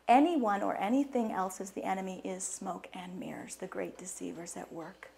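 soft, unvoiced warning; hushed warning to the audience; dramatic whisper. Real, not acted. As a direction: whisper it to draw them in. Warning about the deceiver.

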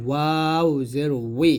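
ওয়াও জের উই with lips rounded; rounded-lip waw. Shown as a demonstration. Teacher shows waw, rounded ওয়াও and উই. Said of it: "দুই ঠোঁট গোল করে".

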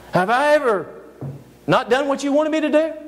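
a hint of a wounded animal pleading with its rider; talking donkey. Donkey asks the master who struck it, lightly voiced and hurt.

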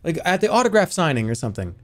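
high, excited fan gushing; starstruck fan. Pretend. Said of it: "imagine ever meeting somebody".

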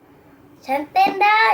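slow, loud and clear for the toy; speaking to a toy. Real, not acted. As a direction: spell it out slowly for the parrot. Child speaks to talking parrot toy.

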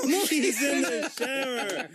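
laughing as you repeat it; slow, amused echo through laughter. Real, not acted. Host repeats the child's answer, laughing.

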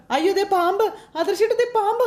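high, alarmed shout; startled scream. Acted. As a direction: cry out on seeing the snake. Spotting the cobra.

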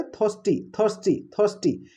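ଥର୍ଷ୍ଟି repeated as a model, the R never sounded; silent R. Shown as a demonstration. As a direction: drill ଥର୍ଷ୍ଟି, each one separate, leaving out the R. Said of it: "ତ ଏଠି ଆର୍ଟା silent ରହୁଛି". (ଥର୍ଷ୍ଟି ରେ ଆର୍ silent ରଖି)

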